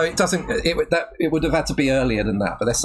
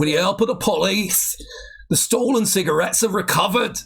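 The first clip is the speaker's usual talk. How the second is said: shaky-skilled mock Geordie narration; attempted Geordie accent; 2 semitones higher than usual. Taking over the Biker Grove script, attempted Geordie accent. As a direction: read it out in an amateur Geordie accent. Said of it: "It's not that I've not heard a Geordie accent".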